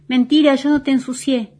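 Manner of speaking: réplica indignada, más aguda; niégalo como un nene peleando; Diego discutiendo. A narrator's reading. Diego discute enojado con la bolita. (discusión infantil actuada)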